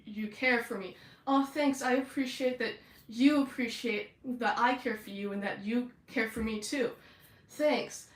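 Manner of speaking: hammed-up earnest bro voices; supportive tough bros. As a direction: gush mutual appreciation like two cartoon bros. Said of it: "really supportive of each other".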